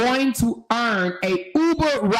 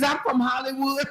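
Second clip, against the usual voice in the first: higher, laughing snooty mimicry; mock Hollywood diva; 4 semitones higher than usual. Host mimicking woman, mock snooty pride. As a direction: say it like a spoiled star.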